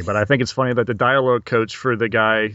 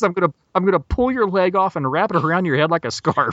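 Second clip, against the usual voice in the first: higher, emphatic retold threat; mock threat; 5 semitones higher than usual. Terry threatening the tickling tailor, mock-angry and higher. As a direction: play up the exasperated threat. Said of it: "grabs the guy by the collar".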